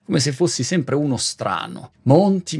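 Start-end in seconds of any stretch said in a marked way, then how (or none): 2.0-2.6 sharp call of his name. Retold or imitated. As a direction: call the name out high and loud. People scolding him, calling out.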